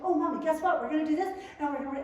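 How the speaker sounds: put-on rushing with excitement like a little boy; eager child. Son telling Mommy his dream, eager gushing. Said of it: "he just talked a mile a minute".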